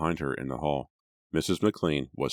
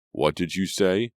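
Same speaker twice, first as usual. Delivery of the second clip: suspicious; 4 semitones higher, 5 dB louder than usual. Acted. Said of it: "he called suspiciously".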